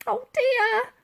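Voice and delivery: muttered. A narrator's reading. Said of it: "muttered Dotty unhelpfully".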